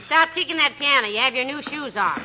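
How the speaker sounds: ordinary talk, nothing marked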